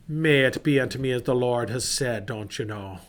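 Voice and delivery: light put-on Irish accent. Patrick answering God's call to return, light Irish accent. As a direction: voice Patrick with a gentle Irish lilt. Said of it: "me best Irish accent that I can give you".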